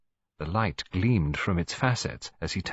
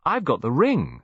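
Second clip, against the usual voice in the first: higher, louder clear call; 6 semitones higher, 4 dB louder than usual. A narrator's reading. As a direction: announce it proudly. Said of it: "in a clear, high voice".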